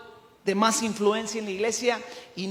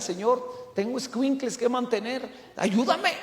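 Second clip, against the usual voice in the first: pleading prayer; 4 dB quieter than usual. Acted. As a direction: beg God for help, building to the last word. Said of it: "se ponen a orar, buscan". (súplica en oración)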